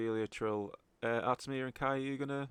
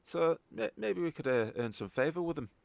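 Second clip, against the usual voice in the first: lightly voiced Scottish contact; Scottish accent; 3 semitones higher than usual. Contact bargaining with the party, Scottish accent. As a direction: speak as a Scottish local informant. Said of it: "properly in a Scottish accent".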